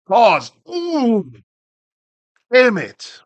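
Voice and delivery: high, loud grudging yelp; surprised groan. Real, not acted. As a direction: caught out and hates it. Reacts to a fact he dislikes.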